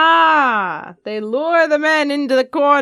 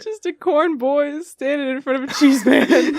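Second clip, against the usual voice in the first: laughing; 3 dB louder than usual. Real, not acted. Cracking up over the joke.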